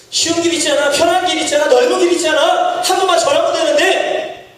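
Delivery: a hint of the tempter coaxing; tempting devil. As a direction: lure him like Satan, sweetly. Preacher voices Satan's tempting.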